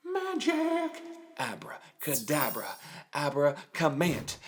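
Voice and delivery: put-on kids party magician. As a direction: play the mysterious stage magician. Magician act, spell.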